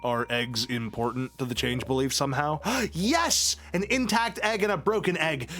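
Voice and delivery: usual speaking voice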